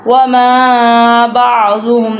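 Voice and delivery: وَمَا with the long a drawn out; lengthened wama. Shown as a demonstration. Teacher shows students the madd on وَمَا, long a held. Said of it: "ادھر وما کو لمبا ہم نے کرنا ہے".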